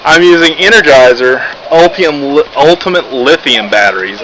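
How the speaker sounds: stumbling over brand names, restarting words; real fumbled false starts with a quick apology; tongue-tied. Real, not acted. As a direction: trip on the product name and correct yourself. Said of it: "I'm tongue-tied today".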